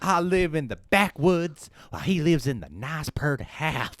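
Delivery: put-on comic backwoods Southern accent. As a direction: grumble as a Southern country brother. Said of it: "I sound like the pervert guy and the Tiger King".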